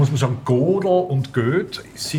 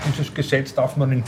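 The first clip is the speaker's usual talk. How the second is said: words around a mouthful; talking while chewing; mouth full. Real, not acted. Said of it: "Mit vollem Mund spricht man nicht". (mit vollem Mund gesprochen)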